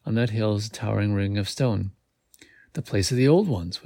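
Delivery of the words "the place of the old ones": ordinary delivery, nothing marked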